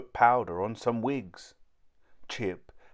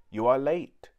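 stern, louder and higher rebuke; 5 semitones higher, 6 dB louder than usual. Acted. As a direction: scold the late new servants. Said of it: "she said sternly".

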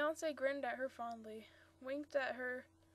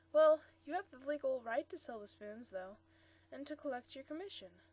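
shrewd; 2 semitones higher, 7 dB louder than usual. Acted. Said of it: "he pointed out shrewdly".

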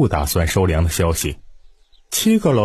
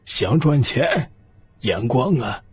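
firm and resolute; 5 semitones higher than usual. Acted. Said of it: "语气掷地有声地说道".

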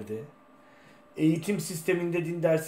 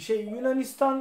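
echoing voice; 8 semitones higher than usual. Real, not acted. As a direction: voice ringing with room echo. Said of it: "benim sesim yankı yapıyor galiba".

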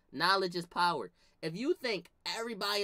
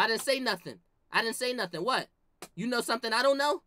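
defensive denial; faster than usual. Retold or imitated. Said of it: "He gonna come in the room".

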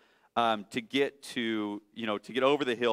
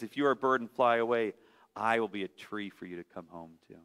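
lower, softer, fast tender mother; gentle mother bunny; 4 semitones lower, 5 dB quieter, faster than usual. Acted. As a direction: reassure the runaway child quietly.

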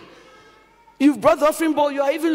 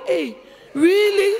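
surprised, amused; 6 semitones higher than usual. Retold or imitated. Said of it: "I'm like".

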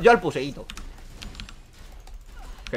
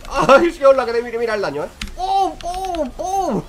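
high squealed pum pum sound effects, much higher and louder; squealing hype; 10 semitones higher, 6 dB louder, slower than usual. Acted. Gamer gleefully taunting an enemy while landing hits, high squealing.

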